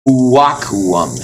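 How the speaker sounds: Uwakuum opening on an oo vowel; original U sound. Shown as a demonstration. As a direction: slowly glide oo into wa in Uwakuum. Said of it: "was originally a uwa".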